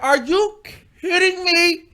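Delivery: high, loud disbelief; mock outrage at being hit; indignant retort. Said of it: "Now I'm getting mad".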